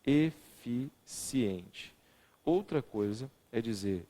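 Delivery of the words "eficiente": eficiente said very slowly; drawn out. Shown as a demonstration. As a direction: linger on every syllable of eficiente.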